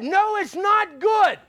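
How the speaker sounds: slow, weighted denial, stress on good; emphatic rebuttal. Real, not acted. Preacher to the church, a slow weighted denial. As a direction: drag out not good to shut it down.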